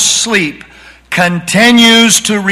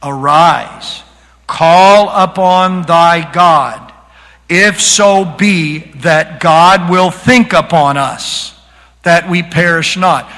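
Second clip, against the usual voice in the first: scripture reading; slower than usual. Shown as a demonstration. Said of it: "What is the answer".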